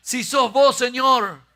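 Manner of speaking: loud, high Argentine Peter, laughing. Retold or imitated. Preacher jokes Peter calls Jesus in Argentine voseo. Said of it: "porque Pedro era argentino".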